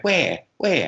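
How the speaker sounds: high, puzzled mum asking where, twice; mum looking around. Retold or imitated. Mum looking around Soho Square for McCartney, high and puzzled. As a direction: play mum searching the crowd. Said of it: "And she went".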